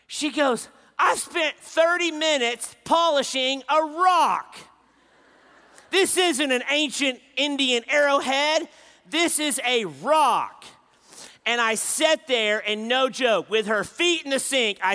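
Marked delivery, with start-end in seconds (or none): 1.0-10.7 put-on high, loud exasperated teenage rant; frustrated outburst. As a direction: vent it at dad, fed up. Daughter complains to dad.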